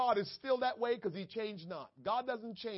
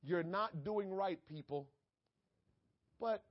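God speaking softly; 7 dB quieter than usual. Acted. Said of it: "God is saying".

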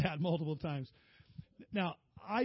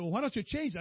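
son's voice; 7 semitones higher, 5 dB louder, faster than usual. Retold or imitated. Son pressing dad to change talk.

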